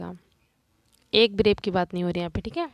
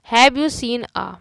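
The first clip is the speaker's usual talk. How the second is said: very slow, loud reading; slow dictation; 3 semitones higher, 6 dB louder, much slower than usual. Shown as a demonstration. Teacher dictating a question to students. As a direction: read it slowly. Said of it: "teacher reads example slowly".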